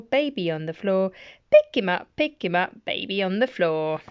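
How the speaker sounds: bouncy rhythmic rhyme reading; nursery rhyme read. Acted. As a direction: bounce the words for a toddler.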